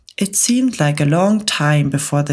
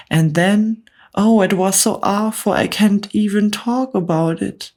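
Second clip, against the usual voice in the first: raised, anxious spider lady voice; a nervous spider recalling a horror; fretful Miss Spider; 4 semitones higher than usual. Acted. Miss Spider telling the bugs her sad tale, fretful and raised. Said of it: "Miss Spider cried".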